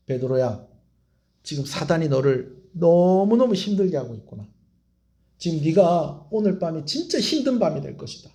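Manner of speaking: a lightly voiced Jesus, gentle and earnest; Jesus speaking to Peter. Jesus telling Peter he will pray for him, gently earnest. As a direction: speak as a caring teacher to his disciple.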